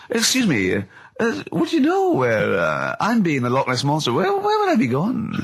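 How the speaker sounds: high, slow, silly put-on monster voice; a polite, confused Loch Ness Monster asking the way; lost monster voice. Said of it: "it goes".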